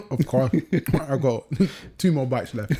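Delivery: talking while chewing biscuit; mouth full. Real, not acted. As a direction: speak round a mouthful. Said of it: "You just about finished your biscuit?".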